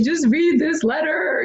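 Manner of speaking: high, whimpering imitation of crying; mock tearful plea. Wife handing husband her letter, mock-tearful pleading. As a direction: plead as if through tears, hammed-up. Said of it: "snotty and crying".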